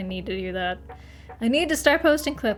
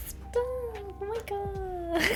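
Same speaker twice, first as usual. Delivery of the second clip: laughing; 8 semitones higher, 5 dB quieter, much slower than usual. Real, not acted. Cracking up mid-sentence.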